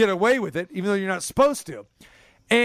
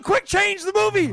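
exasperated; 13 semitones higher than usual. Retold or imitated. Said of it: "I'm going".

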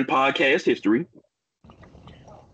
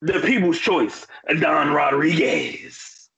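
ringmaster; 2 semitones higher, slower than usual. Acted. Podcast intro announcing wrestlers.

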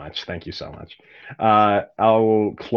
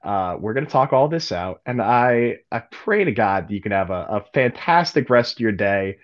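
a hint of a gruff father in a magic letter; casual father's voice, building to a swearing outburst; lightly voiced absent father. Father's voice in a magic letter to his daughter, lightly voiced. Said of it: "In the voice?".

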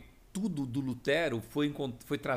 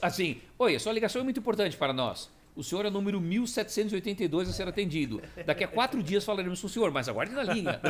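phone menu voice; 5 semitones higher than usual. Retold or imitated. Mocking phone company hold message.

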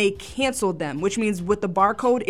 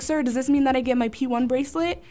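passive-aggressive sweetness; 3 semitones higher than usual. Retold or imitated. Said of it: "I'm passive aggressive".

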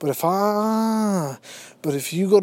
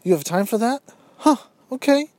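incredulous; 6 semitones higher than usual. Retold or imitated. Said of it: "I'm like".

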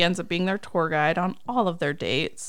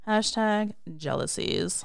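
slow, softer "Hashtag jealousies"; jealous catchphrase; 2 semitones higher, 5 dB quieter, slower than usual. Shown as a demonstration. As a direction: draw out "Hashtag jealousies" as a knowing refrain. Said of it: "That's how we say it".

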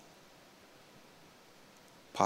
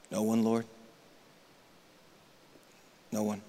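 hushed reply; 3 semitones lower, 8 dB quieter than usual. Acted.

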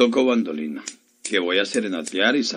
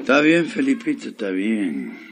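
meek. Acted. Henpecked husband gives in to wife.

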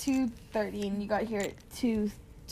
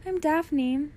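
put-on a touch higher, trying to sound girly; 4 semitones higher than usual. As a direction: lift it slightly, aiming for a girl's voice. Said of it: "You trying to sound like a girl?".

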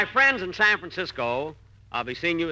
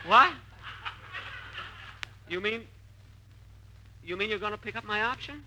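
stunned disbelief; 5 semitones higher, 5 dB quieter than usual. Acted. Jack stunned his option is kept.

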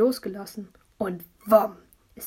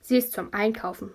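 gloomy. Acted. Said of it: "hat Vincent düster gesagt".

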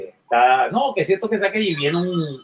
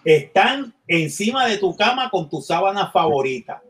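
Al Pacino as devil; 3 semitones higher than usual. Retold or imitated. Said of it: "Al Pacino y dice".

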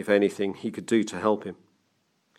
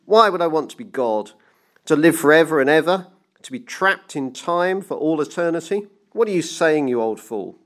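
raised, indignant tirade; thundering; 7 semitones higher than usual. A narrator's reading. Banker berating his old friend, thundering. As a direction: fire off questions high and indignant. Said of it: "he thundered".

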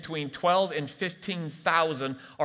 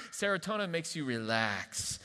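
soft, settling delivery; gently relaxed, quieter voice; soothing calm; 8 dB quieter than usual. Shown as a demonstration. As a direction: ease down softly after a frantic cry. Calm contrasted with adrenaline yelp.

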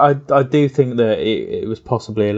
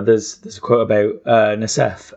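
losing voice. Real, not acted. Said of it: "I'm losing my voice".

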